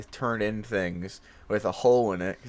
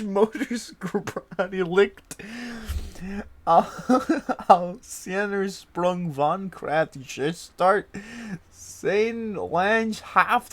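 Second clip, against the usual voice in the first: higher-pitched rapid string of names with laughing breaks; rattling off a long name; 6 semitones higher, 3 dB louder, slower than usual. Pretend. Showing off fast talking, higher-pitched name recital. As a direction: reel off the silly German names, barely holding laughter. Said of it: "I bet I could say that pretty fast".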